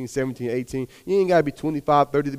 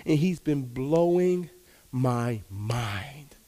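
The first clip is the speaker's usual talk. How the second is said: slow, trailing into a whisper on my mind; whispered awe at what God did; awed whisper; 5 dB quieter, much slower than usual. Real, not acted. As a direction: hush it out in wonder. Awe at God's gifts.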